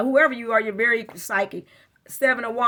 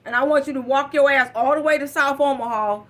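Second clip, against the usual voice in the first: commanding order; 5 dB louder than usual. Retold or imitated. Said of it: "I said".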